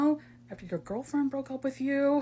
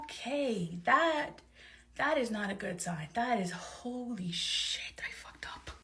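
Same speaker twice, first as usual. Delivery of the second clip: hushed, sinking to a whisper; dismayed muttering; 10 dB quieter, slower than usual. Acted. Neighbour alone after a refused apology, dismayed muttering. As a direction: mutter it to yourself, fading into a whisper.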